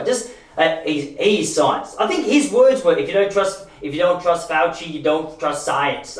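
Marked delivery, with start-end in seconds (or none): 3.0-6.2 put-on slow, with a slight tang of an Austrian-American accent; Schwarzenegger accent. Quoting Fauci on trusting science, a slight, slow Austrian-American accent. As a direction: drag the quote out with a hint of an Austrian-American accent. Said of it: "I know that sounded like Schwarzenegger".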